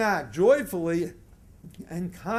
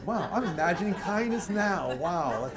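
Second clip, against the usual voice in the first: soft wonder; 2 semitones lower, 4 dB quieter than usual. Shown as a demonstration. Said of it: "Just imagine somebody being kind".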